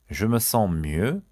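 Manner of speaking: each syllable drawn out slowly for learners; slow model phrase. Shown as a demonstration. French teacher to students, slow model read. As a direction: say it slowly and clearly.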